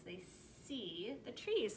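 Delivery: They see the trees, said slowly with see held out; slow it down and lean on see; slow emphatic reading. Shown as a demonstration. Teacher pointing out the verb see, slowly. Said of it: "that's what happens".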